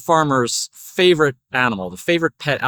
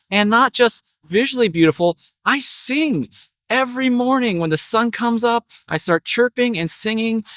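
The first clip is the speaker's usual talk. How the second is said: show-off little bird, climbing higher; vain parakeet; 5 semitones higher than usual. Acted. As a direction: boast proudly as a preening bird. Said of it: "the bird stretches out his wings".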